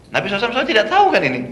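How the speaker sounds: ordinary delivery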